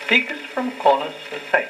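plain

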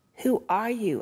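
trembling, shaky, unsure voice. Narrator reading Anna asking the girl who faces her, asking shakily. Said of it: "Anna asked shakily".

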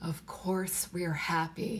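weary, worn-out, tired, flat voice. Answering her repeated question as she holds him, tired. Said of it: "he said tiredly".

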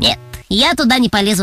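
usual speaking voice

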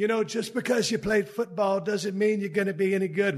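bad, fake, high-pitched English accent. Speaker quoting a seminar presenter calling the speaker out, in a shitty English accent. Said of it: "My shitty English accent".

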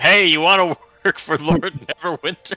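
shouting. Voicing a character at the base of the stairs: yelling up the stairs. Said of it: "just yells up".

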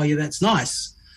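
ordinary delivery

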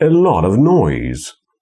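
stress on lot, noise. Teaching English sentence stress; stress on lot and noise. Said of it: "lot jest głośniejsza i noise jest głośniejsza".

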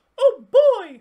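cartoon mouse voice, light, loose head voice, very high, very loud. Demonstrating the head voice register to listeners: Mickey Mouse voice. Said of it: "this also sometimes sounds like Mickey Mouse".

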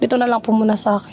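plain

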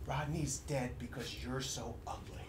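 very quiet, hushed, close-in half-whisper. Retelling what someone half-whispered during a hug at a funeral: imitating a half-whisper. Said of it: "he leaned in and he whispered".

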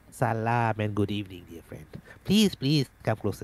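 put-on Arabic accent put on suddenly, out of nowhere. Playing a character greeting the party after being shown a dagger: sudden arabic accent. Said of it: "suddenly he sounds Arabic for no reason".

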